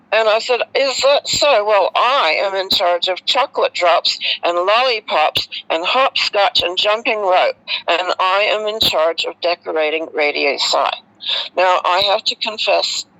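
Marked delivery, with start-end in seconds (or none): 0.8-10.9 cheeky retort. Retold or imitated. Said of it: "I can be a bit cheeky".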